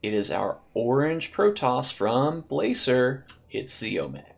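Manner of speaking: slow, drawn-out player introduction; announcer. Acted. Player introduction at match start.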